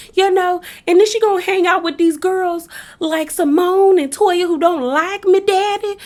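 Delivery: mock a grown woman's baby voice, drawing out words. Reality-show wife complaining to Daddy about her friend, mock baby voice. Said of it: "What is with this baby voice?".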